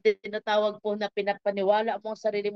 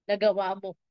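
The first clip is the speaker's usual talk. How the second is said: approving praise, climbing higher phrase by phrase; returning Lord's commendation; 4 semitones higher than usual. Acted. Returning Lord commends the faithful caretaker, rising praise. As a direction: build the commendation item by item. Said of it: "sasabihin niya".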